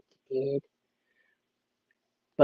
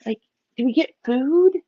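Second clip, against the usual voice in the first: fish voice; 6 semitones higher than usual. Pretend. Missus Episto is like.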